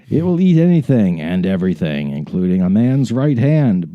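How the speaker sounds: measured, deliberate read-aloud; dramatic story narration. Acted. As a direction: narrate it like a grand adventurer's memoir. Resumes reading story.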